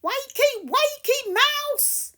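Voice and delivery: high, loud playful wake-up call; yelling. Acted. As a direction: bounce the words out loud. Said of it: "yells Max".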